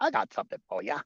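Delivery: fast, cocky challenge; little roo squaring up; tough kangaroo. Retold or imitated. Kangaroo daring someone to fight, fast cocky. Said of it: "I said".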